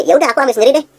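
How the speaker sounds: a light customer impression; customer giving in. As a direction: go along with it. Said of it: "Dia pasti".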